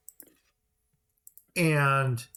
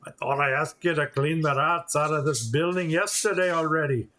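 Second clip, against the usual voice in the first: put-on a light Scottish accent for the gruff quest-giver; lightly put-on Scottish brogue. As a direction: scold him about the rats in a mild Scottish accent. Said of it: "I always wanna put a Scottish accent on this".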